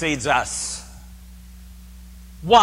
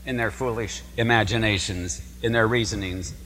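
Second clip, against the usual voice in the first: scripture reading; 4 semitones lower, 4 dB quieter than usual. Shown as a demonstration. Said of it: "It says".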